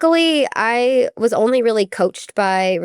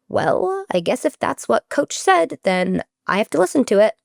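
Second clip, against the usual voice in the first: higher, grudging, resigned give-in; reluctant concession; 4 semitones higher than usual. Retold or imitated. Athletic director giving in to the coach's word, resigned. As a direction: concede only because he has to.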